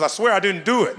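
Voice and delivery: put-on a little boy swearing he is innocent; pleading kid denial. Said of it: "He goes".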